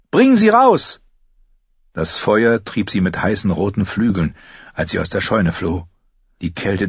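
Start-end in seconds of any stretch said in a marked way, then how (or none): 0.1-1.0 high, loud command; screaming. A narrator's reading. Arya ordering Gendry out, screaming. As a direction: yell the order over the flames. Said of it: "schrie sie".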